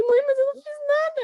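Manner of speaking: high, loud, indignant protest to mom; retold high protest. Protesting to mother after fight.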